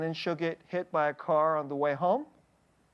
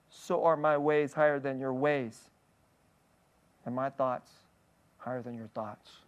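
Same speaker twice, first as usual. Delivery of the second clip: scripture reading; 2 semitones lower than usual. Acted. Reads Isaiah aloud.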